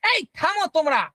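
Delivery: high, loud call to stop; high pitch. Shown as a demonstration. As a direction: raise the pitch to halt the class. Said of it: "কেউ যদি high পিচে কথা বলে". (উঁচু স্বরে থামতে বলা)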